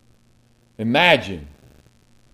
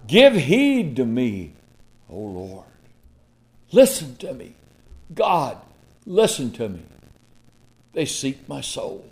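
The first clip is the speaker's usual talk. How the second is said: pleading prayer. Acted. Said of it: "cried out".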